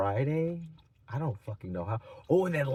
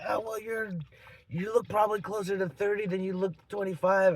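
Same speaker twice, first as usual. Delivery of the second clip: higher, lightly put-on woman's voice; mocked woman; 5 semitones higher than usual. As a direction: imitate her huffy comeback. Mocking the woman's retort.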